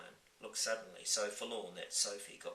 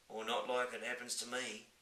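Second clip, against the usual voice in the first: giant voice; 3 semitones higher than usual. Acted. Giant replies.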